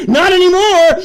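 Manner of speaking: "Not anymore" yelled high; shouted. Retold or imitated. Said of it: "is screaming to you".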